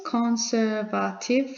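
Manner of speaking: Conservative said slowly, each syllable drawn out; teacher spelling out Conservative slowly syllable by syllable; slow syllable count. Shown as a demonstration. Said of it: "Conservative is four syllables".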